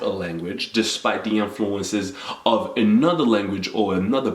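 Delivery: measured, eloquent academic register; lightly put-on intellectual formality; Ivy League intellectual. Shown as a demonstration. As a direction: speak as if to a scholarly crowd. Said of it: "if I was speaking to an intellectual, more Ivy League type of crowd".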